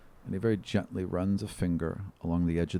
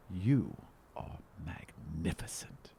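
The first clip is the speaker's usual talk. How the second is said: breathy whispered awe to the wolf; awed whisper; 4 semitones lower, 6 dB quieter, slower than usual. Acted. Elf kneeling to a wolf, awed whisper. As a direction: whisper it in wonder. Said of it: "like the back of his hand".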